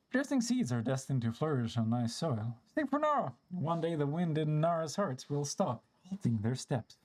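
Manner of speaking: put-on an elder spirit recalling old times; lightly acted storybook character reminiscing; lightly voiced old forest spirit. Voices game character's dialogue.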